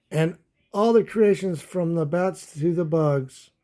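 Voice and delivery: lively storybook read-aloud; animated children's story narration. Acted. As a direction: read it like a bedtime picture book. Reading picture book aloud.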